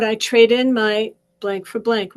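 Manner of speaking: firm, clear spoken affirmation; affirmation said out loud. Shown as a demonstration. Coach showing viewers the affirmation, said out loud. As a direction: say it out loud like a promise to yourself. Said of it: "you're gonna say out loud".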